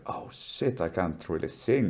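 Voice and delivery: soft retold groan of realizing the voice is gone; hushed dismay. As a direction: breathe it out like the morning-after realization. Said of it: "I go".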